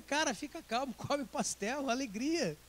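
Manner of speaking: soft, light reassurance with a laugh; calm the friend down gently; quiet friendly comfort; reassuring. Retold or imitated.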